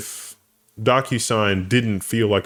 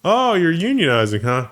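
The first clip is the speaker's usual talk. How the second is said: loud, high mock-suspicious jab; mock boss; 8 semitones higher, 4 dB louder than usual. Boss to workers caught starting a union, mock accusing. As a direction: pounce on it like a hammed-up boss.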